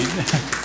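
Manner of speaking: brief pleased laugh; quick little laugh; real chuckle. Real, not acted. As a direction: chuckle between bits of praise. Pleased the child got it.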